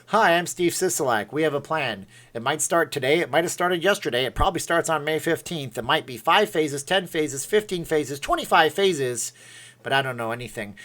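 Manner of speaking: lightly voiced tired politician; mildly mocking official reeling off a vague plan; Steve Sisolak. Streamer mocking a politician for viewers, lightly imitated Sisolak. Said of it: "Could I do Sisolak?".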